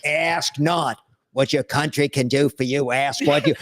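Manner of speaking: a hint of a slow, lofty Kennedy speech; eloquent Kennedy. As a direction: lightly recite it like a grand inaugural address.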